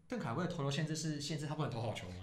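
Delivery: bursts out laughing loudly; laughing hard, words in a high voice. Real, not acted. Retelling a fan joke.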